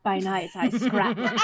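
teasing imitation of seduction, laughing; mock seductive. Teasing her co-host about her introduction, mock seductive. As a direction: tease with a laughing seductive impression. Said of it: "You made that sound very seductive".

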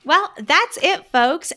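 high, slow sign-off; excited announcer. Real, not acted. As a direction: draw out the outro cheerfully. Host outro announcement.

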